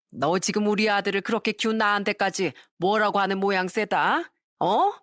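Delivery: a hint of an older mother taking her son's side; scolding mother-in-law. (며느리를 나무라는 시어머니, 살짝 높은 목소리)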